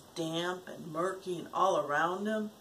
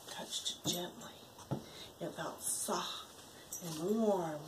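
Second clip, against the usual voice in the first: hushed reading; 2 semitones lower, 10 dB quieter than usual. A narrator's reading. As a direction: breathe the words to the child. Parent reading story softly.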